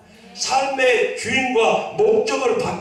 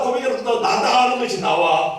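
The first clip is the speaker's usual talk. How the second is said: usual speaking voice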